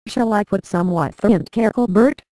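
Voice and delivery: a cheeky dig said with a half smile; mock innocent question to Bert; sly teasing. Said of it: "I said with a smile up one side of my face".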